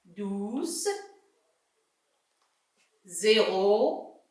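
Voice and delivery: each word given a rising tune with pauses between; read-along list. Shown as a demonstration. Teacher reading the word list with the whole class. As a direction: list the words slowly for the class to join in. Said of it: "Essayez de lire en même temps que moi".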